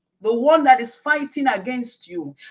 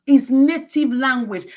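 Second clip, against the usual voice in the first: louder repeat; 2 semitones higher, 5 dB louder, slower than usual. Acted. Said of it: "It says when he lies".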